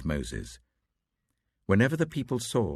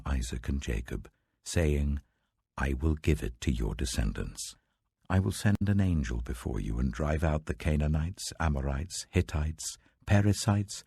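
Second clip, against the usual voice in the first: lower, grave voice of God; voice of the Lord; 5 semitones lower than usual. Acted. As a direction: speak as the Lord, weighty and solemn.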